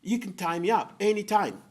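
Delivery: high, loud, eager pleading with a nervous laugh; sly leopard overplaying his eagerness; begging leopard. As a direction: beg desperately, half laughing. Leopard begs for knowledge.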